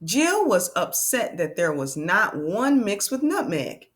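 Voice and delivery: deliberate storybook read-aloud; measured, expressive reading for learners; reading to children. Acted. Teacher reading one last page to friends, expressive read-aloud.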